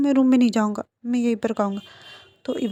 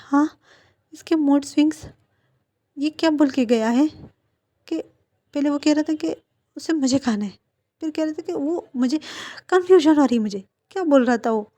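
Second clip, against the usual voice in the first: higher, louder flustered grumbling; confused rant; 5 semitones higher, 4 dB louder than usual. Acted. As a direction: rant in baffled exasperation. Ibo confused by mood swings. (उलझन में ऊँची आवाज़ में बड़बड़ाना)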